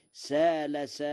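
سال سائل with a long a and no hamza, like قال; Warsh reading. Shown as a demonstration. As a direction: say سال as sāla, no glottal stop. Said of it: "على وزن قال".

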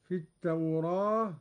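"التوراة" with the alif slightly leaned toward e; taqlil. Shown as a demonstration. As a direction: say "التوراة" as tawreh with light imala. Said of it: "هكذا".

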